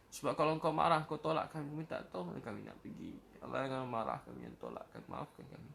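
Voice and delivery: beg, near tears, until the voice gives out; real tears rising at the end of the du'a; voice breaking. Real, not acted. Prayer climax, begging forgiveness.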